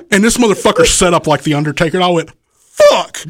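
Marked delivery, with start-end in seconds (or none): 2.5-3.2 high alarmed yelp; startled shout. Retold or imitated. Wrestler yelping as the fan sits up again. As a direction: yelp in sudden fright.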